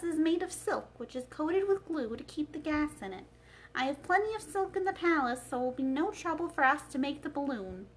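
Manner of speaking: a hint of a thoughtful old wizard; Oz's voice. The wizard shares his balloon plan with Dorothy, lightly voiced.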